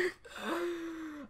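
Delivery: high, drawn-out mock gasp; acted gasp. Teen reacting to dad's freak-out, acted gasp. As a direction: suck in breath, imitating stunned dread.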